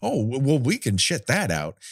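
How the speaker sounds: hammed-up, lightly voiced executive realizing there's money; mock studio exec. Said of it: "they're like".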